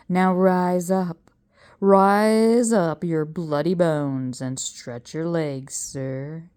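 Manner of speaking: slow, drawn-out commands to rise; a professor wheedling a ghost; coaxing showman. Acted. Professor orders the ghost to rise, slow and grand.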